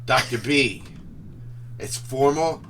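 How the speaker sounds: high, loud and building to an exclamation; delighted approval. Acted. Professor loves his new nickname, delighted and building. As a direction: build to a big triumphant shout.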